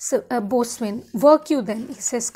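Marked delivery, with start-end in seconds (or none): 1.3-1.8 loud order. Retold or imitated. Boatswain ordering nobles away.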